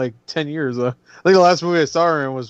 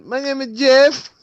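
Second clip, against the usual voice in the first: high, slow mock dopey voice; imitating the My name is Jeff meme; meme quote; 9 semitones higher, slower than usual. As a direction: drawl it like a dim cop. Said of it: "the meme".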